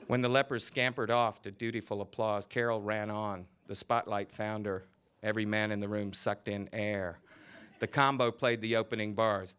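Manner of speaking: lively novel reading, voicing each character; story reading. A narrator's reading. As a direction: read the scene aloud with relish. Author reads novel scene aloud.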